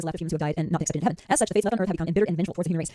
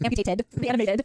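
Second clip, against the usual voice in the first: slow playful rhyme; 4 semitones higher, much slower than usual. Pretend. Rhyming playfully.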